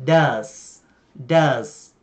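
"does" said clearly as "daz"; pronouncing does. Shown as a demonstration. Teacher modelling the word for learners, clear and careful. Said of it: "phải mượn trợ động từ là".

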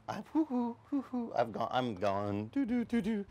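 high mock loony noises; going crazy. Preacher acting his younger self losing it, high. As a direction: play like you've lost your mind. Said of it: "I'm thinking".

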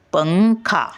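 "पंखा." with "पं" lifted high, then falling; पं उचलून. Shown as a demonstration. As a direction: raise and hold the nasal in "पंखा.". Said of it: "पला उचलून धरतो". ("पंखा." पं उंच उचलून म्हणा)

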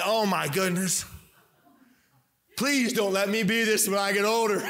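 oh-please-no exasperation; mock dismay. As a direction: plead in comic horror. Mock dread at dad's look.

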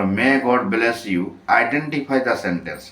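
English question drawn out word by word at a crawl; very slow reading of the question. Shown as a demonstration. Teacher reading the exercise to the class, very slowly. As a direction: read each word of the question slowly for the students. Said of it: "এগারো নম্বরে".

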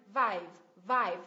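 "Vive" firmly stressed, pitched low; stressed syllable. Shown as a demonstration. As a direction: lean on each "Vive". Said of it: "Nhấn vào tiếp thứ hai".

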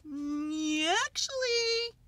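high, hesitant animal voice; tentative buffalo character voice; Water Buffalo. A narrator's reading. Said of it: "said Water Buffalo".

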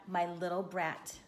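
put-on measured read-aloud for children; story narration. A narrator's reading. Telling children about a cat and rat, story narration. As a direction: read it out evenly, unhurried, landing the rhymes.

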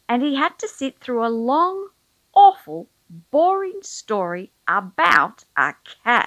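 a long, AWFUL, boring story, with awful wailed; awful stressed. A narrator's reading. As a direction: moan the word awful in mock agony. Mock dread of boring story.

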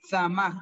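"zamaj" with a separated hissed ts onset; model pronunciation. Shown as a demonstration. Teacher asking pupils to listen, "zamaj" with marked ts. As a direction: hiss the ts, then say "zamaj".

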